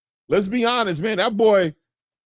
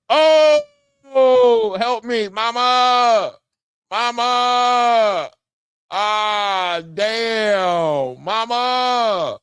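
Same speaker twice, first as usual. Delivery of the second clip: hammed-up cry of pain, calling for mama; comic fake anguish over a knockout; mock wail for mama; 4 semitones higher, much slower than usual. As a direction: play the knocked-out fighter wailing for his mother.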